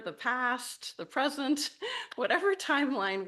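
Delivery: giddy, laughing build; playful rising excitement. Real, not acted. Playful welcome across timelines.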